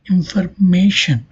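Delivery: "information" stressed on "ma"; stress before the suffix. Shown as a demonstration. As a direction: lean on "ma" in "information". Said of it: "stress falling on its before syllable".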